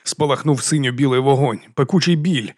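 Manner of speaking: usual speaking voice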